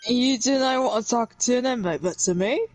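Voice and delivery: rough attempt at a Scottish accent. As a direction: try a Scottish prison governor, half-sure.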